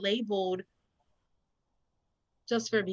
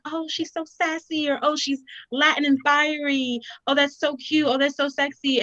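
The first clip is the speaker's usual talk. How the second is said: mock admiring gush; 5 semitones higher than usual.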